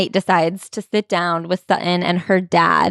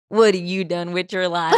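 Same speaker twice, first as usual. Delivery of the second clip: tobacco-spitting grandpa; 3 dB quieter than usual. Acted. Grandpa turning on the mom after spitting tobacco, old-timer voice. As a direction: talk like a grandpa chewing tobacco. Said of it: "let me spit some tobacco".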